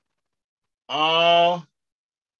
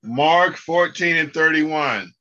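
louder lead reference; call and response lead; 3 semitones higher, 5 dB louder than usual. Shown as a demonstration. Teacher leading students in the verse reference, raised voice. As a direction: announce it clearly for the class. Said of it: "repeat after me".

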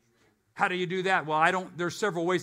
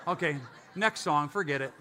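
laughing; 5 semitones lower than usual. Retold or imitated. Gives up on the song, laughing.

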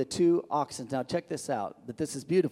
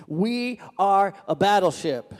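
louder, raised voice, booming out the claim; thundering admiral; 4 semitones higher, 6 dB louder, slower than usual. A narrator's reading. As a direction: roar it like an angry admiral. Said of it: "the admiral was infuriated and thundered".

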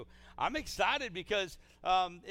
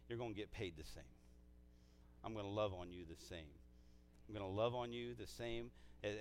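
tender reassurance; 6 semitones lower, 8 dB quieter than usual. Acted. Voices God's promise of equal love.

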